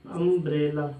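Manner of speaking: अम्ब्रेला sounded out slowly, opening on "um"; pronunciation demo. Shown as a demonstration. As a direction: model अम्ब्रेला syllable by syllable. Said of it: "pronunciation करते हैं".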